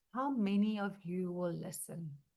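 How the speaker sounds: very quiet, flat, dull, low-energy low voice. Speaker addressing an audience, showing how not to talk: flat low-energy voice. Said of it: "if I was going to talk like this".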